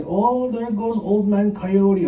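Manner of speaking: slow, drawn-out teasing; mocking jeer. Animal people making fun of old man Coyote, mocking drawl. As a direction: draw it out to poke fun. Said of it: "animal people make fun of me".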